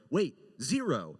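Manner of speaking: laughing realization. Retold or imitated. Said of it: "but then we're like".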